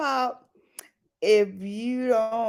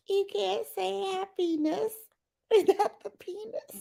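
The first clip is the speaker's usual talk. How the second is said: high, soft, giggly retelling; laughing; 9 semitones higher, 5 dB quieter than usual. Real, not acted. Repeating the joke to viewers, laughing high and soft. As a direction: repeat it through suppressed laughter.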